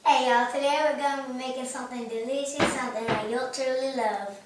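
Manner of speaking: a light, shy Southern accent, quick through the middle. Shown as a demonstration. Daughter asked by mom to redo it, light Southern accent. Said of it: "with your Southern accent?".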